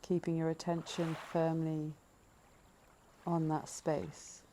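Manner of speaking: calm, measured breathing-meditation voice, leaving space between phrases; guided meditation. Acted. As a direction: gently lead listeners into noticing the breath.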